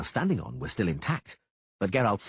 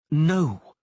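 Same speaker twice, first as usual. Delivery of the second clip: coldly; 7 semitones higher, 7 dB louder than usual. A narrator's reading. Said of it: "she said coldly".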